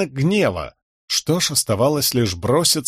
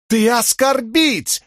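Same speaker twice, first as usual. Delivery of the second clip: much higher, very slow, broken-Russian outrage; indignant Horneater accent; 11 semitones higher, much slower than usual. A narrator's reading. Shallan, posing as a Horneater, accuses Kal in a fake Horneater accent. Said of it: "объявила Шалан".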